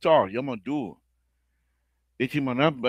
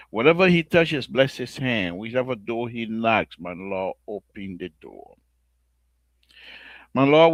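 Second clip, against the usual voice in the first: earnest spoken prayer to the Lord, steady and devout; on-air prayer. Acted. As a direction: pray for the country on behalf of the listeners.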